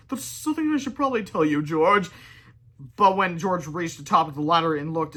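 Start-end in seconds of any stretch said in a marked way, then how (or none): 0.1-2.1 nervous. A narrator's reading. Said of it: "said Harold nervously".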